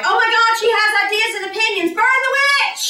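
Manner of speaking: high, loud mock panic; mock outraged crowd. Villagers outraged that a woman has opinions. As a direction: shriek it like a villager at a witch hunt. People mocking her opinions.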